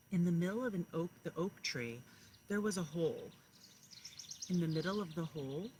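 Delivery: storybook narration, each line weighted; story reading to children. Acted. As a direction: read it like a bedtime picture book to kindergartners. Teacher reads picture book aloud.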